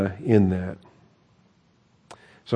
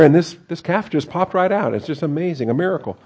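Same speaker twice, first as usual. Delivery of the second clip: higher-pitched feigned wonder; mock amazement; 6 semitones higher than usual. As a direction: play up fake innocent astonishment. Mocking Aaron's miracle excuse.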